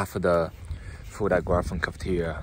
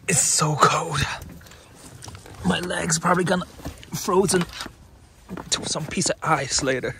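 whiny; 9 semitones higher than usual. Real, not acted. Freezing, complaining about the cold.

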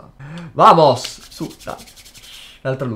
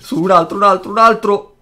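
breathless italian goal commentary; 5 semitones higher, 7 dB louder than usual. Real, not acted. Urging the next card out.

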